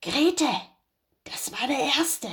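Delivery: a hint of a sly farmer to his wife; Bauer. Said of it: "stieß der Bauer seine Frau an und sagte". (der Bauer raunt seiner Frau Grete leicht verstellt zu)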